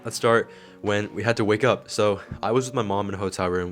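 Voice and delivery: talking with a retainer in; wearing a retainer. Real, not acted. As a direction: speak around a retainer. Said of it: "I have my retainer in".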